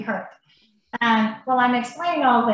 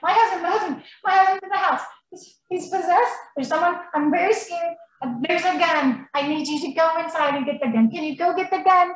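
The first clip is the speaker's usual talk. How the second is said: panicked plea; 5 semitones higher than usual. Retold or imitated. Retelling panicked plea to stranger.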